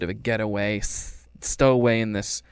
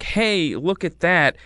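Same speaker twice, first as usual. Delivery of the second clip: sneaky distraction; 6 semitones higher, 4 dB louder, slower than usual. Retold or imitated. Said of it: "he quite literally is like".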